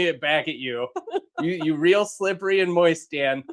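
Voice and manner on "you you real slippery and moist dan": teasing while laughing. Real, not acted. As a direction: laugh through the tease.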